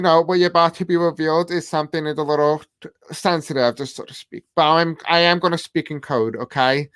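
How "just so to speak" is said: breathy whispered aside, barely voiced. Real, not acted. Tarot reader whispering to viewers about a sensitive reveal. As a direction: drop to a whisper, as if sharing a secret.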